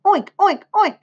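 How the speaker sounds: high, loud playful oinks; pig oinking. A narrator's reading. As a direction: squeal it like a child playing piglet. Boy playing at being a pig.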